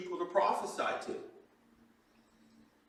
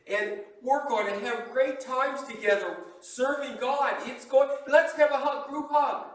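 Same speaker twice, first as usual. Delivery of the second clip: cheerful Elijah; 4 semitones higher than usual. Retold or imitated. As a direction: ham up an overly friendly prophet. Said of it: "he's being very cheerful".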